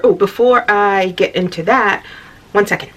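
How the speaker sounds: talking while chewing gum; words around a wad of gum. Real, not acted. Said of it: "Pardon the gum".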